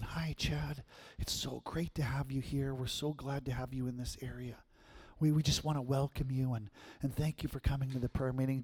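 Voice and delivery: very soft imitation of a gentle pastor; soft-spoken, gentle. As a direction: welcome a newcomer in a hushed, gentle voice. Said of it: "this soft, really gentle voice".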